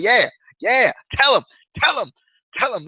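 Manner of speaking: high-pitched hyped-up fan commentary; all hype. Retold or imitated. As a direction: egg the wrestler on. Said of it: "gets all, gets all hype".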